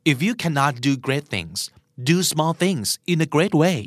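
very slow, deliberate quote reading; slow recitation. Shown as a demonstration. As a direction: read each word slowly and clearly.

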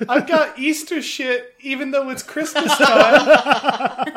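lightly voiced chirpy mascot; bright squeaky sing-song welcome. Mascot voice continues.

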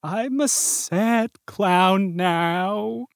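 slow, weepy confession; mournful sad clown whine. Acted. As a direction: sob it out slowly. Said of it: "why are you crying like that?".

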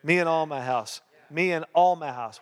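firm repeated declaration; declaring. Shown as a demonstration. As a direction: proclaim it like a creed. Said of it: "Declare it".

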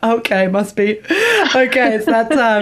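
wry okay, it's that time; knowing mock realisation. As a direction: dawn on it with a wink. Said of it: "And I'm like".

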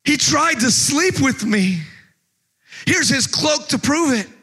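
high, slow mock cry of a false accuser. Preacher acts out Potiphar's wife accusing Joseph, high and drawn out. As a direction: ham it up as Potiphar's scheming wife. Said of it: "what does Potiphar's wife go".

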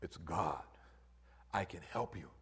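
a hint of a low, quiet God voice; calm booming God, lightly voiced; God calling down to the hanging man, low and quiet. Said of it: "he hears this voice".

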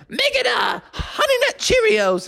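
Bucky's shout. Acted. Bucky shouting his cereal order at Froggy, high cartoon yell. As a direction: holler the order across the yard.

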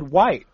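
WHITE with an H blown before the W; aspirated wh. Shown as a demonstration. Friend defending how he would say it, aspirated wh. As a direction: start WHITE on a breathy "hw". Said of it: "I'd have said".

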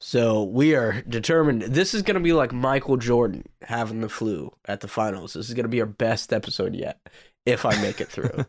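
hoarse from a cold; sick, raspy voice. Real, not acted. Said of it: "I apologize for my sexy, raspy voice".

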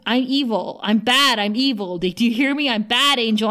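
mild mock shout, urgent and insistent; retold shouting. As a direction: half-shout it as an acted quote. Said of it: "She's shouting at him".

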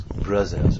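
"brothers" with a French z in place of th; French-accented mispronunciation. Retold or imitated. Muslim teen calling his new friends, French-accented "brothers". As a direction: say "brothers" like a French learner, "bruzzers". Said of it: "he starts calling us brothers".

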